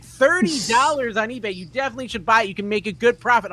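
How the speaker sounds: high, loud imitation of an oblivious mother; loud mom. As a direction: blare out the sales advice, easing off slightly. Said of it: "she doesn't quiet down".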